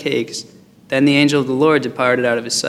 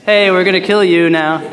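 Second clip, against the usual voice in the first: higher, hammed-up threat with a punched Hey; mock angry threat; 4 semitones higher, 4 dB louder than usual. Shown as a demonstration. Angry unbelievers threatening Gideon at his house, a hammed-up higher threat. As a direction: play the angry mob a bit more fiercely. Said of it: "they probably didn't say it like that".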